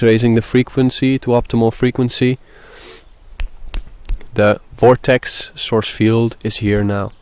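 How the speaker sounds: even, measured visualization voice; guided meditation. Acted. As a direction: guide them steadily through the imagery. Leads a visualization.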